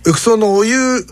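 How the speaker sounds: nervous student calls the hotel front desk in Kumamoto dialect. Retold or imitated. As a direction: fumble every word like a stiff, nervous schoolboy. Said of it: "ガチガチに緊張しながら".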